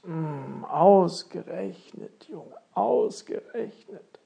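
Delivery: slow, drawn-out dismay from a king; a touch of kingly exclamation; lightly voiced king's exclamation. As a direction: draw the words out, lightly playing the king. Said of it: "rief der König nun aus".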